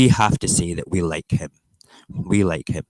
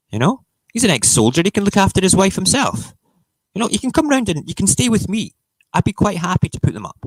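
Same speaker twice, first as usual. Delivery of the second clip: high-pitched protest; 12 semitones higher, 4 dB louder than usual. Real, not acted. Streamer offering to host the royal couple, high-pitched protest. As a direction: voice shooting up into a squeaky register.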